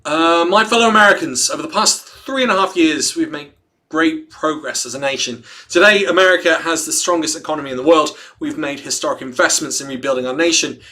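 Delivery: measured presidential address read aloud; formal read-aloud. Acted. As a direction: read it out like a statement to the nation. Reads a presidential statement aloud.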